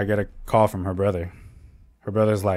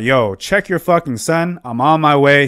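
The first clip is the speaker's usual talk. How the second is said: worked-up, raised pitch, opening slowly; retold heated demand; 3 semitones higher, 4 dB louder than usual. Telling the dad he is coming, heated retold demand. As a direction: re-enact being heated on the phone. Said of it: "I'm heated".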